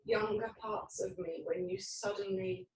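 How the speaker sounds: soft, vulnerable admission of fear; hushed hurt and fear; frightened. Shown as a demonstration. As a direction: let a small, scared part speak quietly. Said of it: "It's really frightening".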